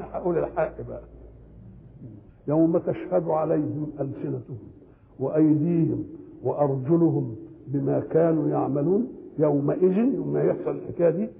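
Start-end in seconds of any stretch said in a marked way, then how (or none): 2.5-10.0 Quranic recitation. Acted. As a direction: draw the verse out with care. Recites the verse measured.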